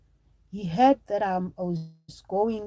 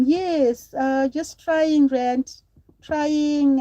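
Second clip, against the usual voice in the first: excited thanks; 5 semitones higher, 5 dB louder, much slower than usual. Real, not acted. Thanking a viewer on live stream.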